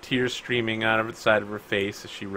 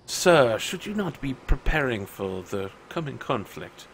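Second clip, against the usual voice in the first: lightly voiced butler. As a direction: play a hint of a household butler. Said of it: "her butler's like".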